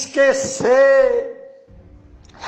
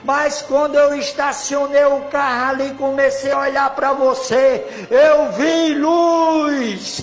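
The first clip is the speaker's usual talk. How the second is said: excited outcry; 3 semitones higher, 3 dB louder than usual. Retold or imitated. Stranger crying out to the preacher that he saw light, loud and excited. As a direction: blurt out that you saw light. Drunk man's retold outburst.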